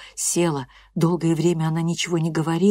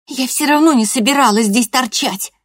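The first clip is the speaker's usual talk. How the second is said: sulky retort; 8 semitones higher, 7 dB louder than usual. Acted. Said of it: "буркнула Лореда".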